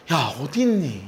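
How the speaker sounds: gently drawn-out call, unforced; warm calling. Shown as a demonstration. Preacher as God calling hidden Adam, warm and gentle. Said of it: "따뜻하게 부르시는 음성이에요".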